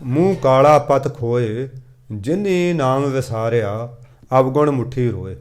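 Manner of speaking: slow, measured verse reading; scripture recitation. Acted. Preacher reading Gurbani to the congregation, slow recitation. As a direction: draw out each word of the sacred verse.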